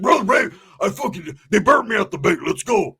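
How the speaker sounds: loud, high, excited outburst; acted fired-up reply; riled up. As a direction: blurt it out, raring to go. Roach fired up about the bank.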